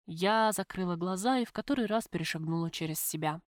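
ordinary delivery, nothing marked

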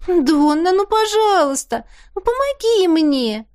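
высокое канючащее нытьё; выше, тянет и упрашивает; канючит. A narrator's reading. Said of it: "законючила Теа". (Теа канючит, выше)

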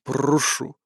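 put-on low, grudging growl of a drunk host; growled invitation. A narrator's reading. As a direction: growl the word out, unwelcoming. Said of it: "Прорычав своё приглашение".

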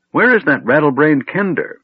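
loud, indignant dwarf demand; angry dwarf. A narrator's reading. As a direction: bark for the missing kender.

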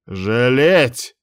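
rising indignant outburst; flaring up. Acted. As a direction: flare up in disbelief. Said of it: "взвился Муса ещё больше".

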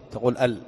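ال read as one syllable al; letters said as a word. Shown as a demonstration. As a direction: say ال as the word al, not letter names. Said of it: "أن تنطق به بلفظه".

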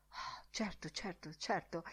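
very soft, murmured agreement; hushed assent. Acted. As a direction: murmur it obligingly, almost without voice. Librarian obligingly answers the attendant.

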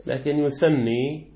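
slow يثني with a doubled ن, yuthanni; preferred reading. Shown as a demonstration. Teacher stressing the preferred reading of يثني. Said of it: "الأفضل أن نقول يثني".

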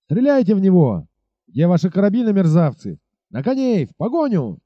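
rally the men to chase; captain yelling at his soldiers to fire and ride; shouted orders. Acted. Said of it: "скомандовал он солдатам".

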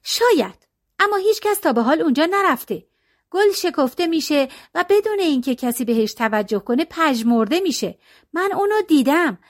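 two friends stubbornly claim the flower; girls arguing. Acted. Young friend to friend, lightly voiced stubborn girl.

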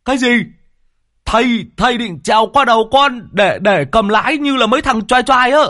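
nói to cao giọng át tiếng gió; hét lại ngạc nhiên, cuống quýt. Acted. Lâm Sẹo hét qua tiếng gió. (Lâm Sẹo quay lại hét đáp thầy)

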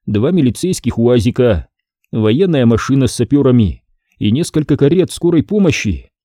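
ordinary delivery, nothing marked

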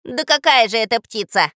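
loud, scoffing parrot; contemptuous. Acted. Parrot Zhako corrects Katya about the bird, contemptuous. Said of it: "презрительно усмехнулся Жако".

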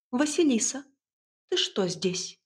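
a stern mother calling her daughter; строгая мать. A narrator's reading. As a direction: catch her in the act, sternly. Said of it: "Строгий голос матери прозвучал как наяву". (строгий материнский оклик)

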